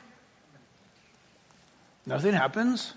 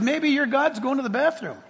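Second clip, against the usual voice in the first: laughing taunt; 4 semitones higher, 3 dB quieter than usual. Acted. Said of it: "The prophet of God said".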